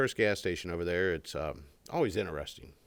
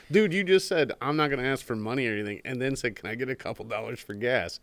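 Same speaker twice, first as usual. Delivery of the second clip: louder, higher incredulous retort; 5 semitones higher, 5 dB louder than usual. Retold or imitated. Telling the stranger off at the pump, incredulous and louder. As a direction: point out the contradiction in disbelief. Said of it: "I was like".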